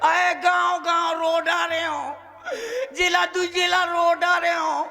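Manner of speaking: half-joking sob through the words; mock crying lament. Wailing about no wife coming.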